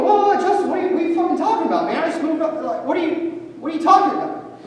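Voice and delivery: high, fast, rattled protest; shocked protest. Retold or imitated. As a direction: blurt it out in panicked disbelief. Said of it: "I'm like".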